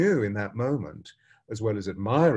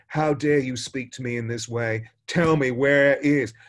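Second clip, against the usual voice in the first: rising fury, loud on the final demand; a samurai losing his temper; angry demand; 2 semitones higher, 5 dB louder than usual. Retold or imitated. Samurai rages at gardener.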